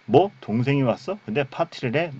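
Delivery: mock an affronted brother's questions; indignant older brother. Older brother reacting to the party, acted indignation. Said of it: "노하여 들어가고자 하지 않습니다".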